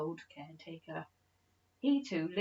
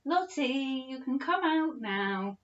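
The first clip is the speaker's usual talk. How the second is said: put-on old uncle calling; 6 semitones higher, 5 dB louder, slower than usual. A narrator's reading. Uncle voiced calling Lottie.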